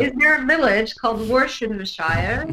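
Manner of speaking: lightly put-on British accent; mock British accent. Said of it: "That's being a little British racist".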